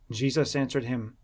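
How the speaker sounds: ordinary delivery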